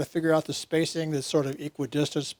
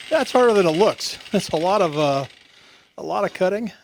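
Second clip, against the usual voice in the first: inside a barrel; 4 semitones higher, 7 dB louder than usual. Real, not acted. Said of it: "so I sound like I'm in a".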